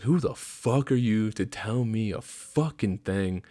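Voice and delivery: retold tirade, rising in pitch as it builds; mock dressing-down with punched swear words; tearing into him. Corporal re-enacting his rant at a dumb private, mock fury. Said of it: "And literally tore into him".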